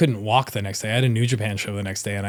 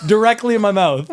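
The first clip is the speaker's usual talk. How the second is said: high, loud, still cracking up; helpless laughing repeat; 9 semitones higher, 6 dB louder than usual. Real, not acted. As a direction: repeat it through real laughter.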